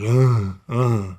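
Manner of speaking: mimicking a wordless, drugged-out groan; mock groan of an overdosed man; imitated incoherent groan. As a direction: groan like someone unable to talk. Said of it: "couldn't even talk".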